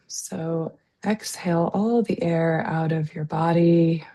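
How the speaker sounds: calm, unhurried breathing guidance with long pauses; guided meditation. Real, not acted. Leads slow breathing exercise.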